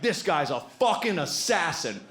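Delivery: put-on excited drunk bro yelling; drunk guy. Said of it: "He's like".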